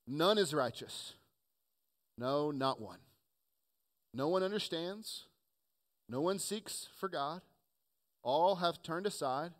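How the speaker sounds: measured, solemn reading with long pauses; weighty public Bible reading; scripture reading. A narrator's reading.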